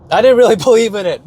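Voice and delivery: quick laugh mid-sentence. Real, not acted. Laughs admitting he didn't believe.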